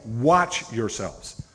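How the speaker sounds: "Watch yourselves" drawn out very slowly; slow emphatic quote. Shown as a demonstration. Preacher quoting Jesus to the congregation, slow and weighty. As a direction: read the verse slowly and deliberately. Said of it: "he's saying".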